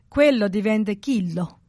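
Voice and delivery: quello said with a hard k, chillo; dialect chillo. Shown as a demonstration. Explaining dialect, quello turned to chillo. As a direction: chillo with k in place of qu. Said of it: "they don't say qu, they say k".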